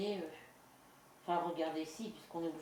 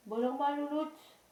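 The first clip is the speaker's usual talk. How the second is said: high cooing voice, much higher and louder; pet talk; 8 semitones higher, 5 dB louder than usual. Real, not acted. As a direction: coo sweetly at a little pet.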